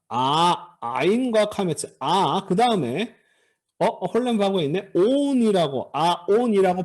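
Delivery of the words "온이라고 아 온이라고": 아, 온 as two bare vowels, no consonant between; vowel-initial 온. Shown as a demonstration. Teacher showing students a mistaken reading, 온 with no V. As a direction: say 온 starting straight on the vowel O. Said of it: "발음하시면 안 됩니다".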